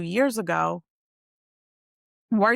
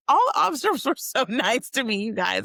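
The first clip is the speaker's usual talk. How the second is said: laughing; 5 semitones higher than usual. Real, not acted. Laughing while recalling officers.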